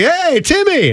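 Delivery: excited fan greeting. Retold or imitated. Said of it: "the guy's like".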